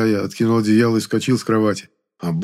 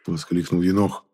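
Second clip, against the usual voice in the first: plain reading voice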